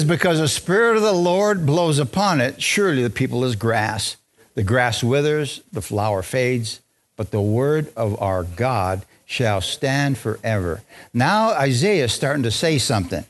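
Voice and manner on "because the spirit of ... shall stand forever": measured pulpit reading, slowing and sinking; scripture reading. Real, not acted. Reads scripture aloud.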